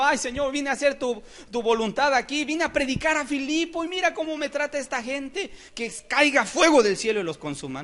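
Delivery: high-pitched imitation of a whining prayer; hammed-up plaintive pleading; mock tearful complaint. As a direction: act out a wailing grievance to God. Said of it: "no estaba llorando y diciendo".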